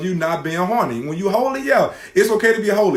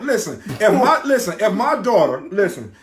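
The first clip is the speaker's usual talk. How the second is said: raised voice, pitched up; loud, heated; 4 semitones higher, 4 dB louder than usual. Real, not acted. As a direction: insist loudly over the interruptions. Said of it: "Why you screaming?".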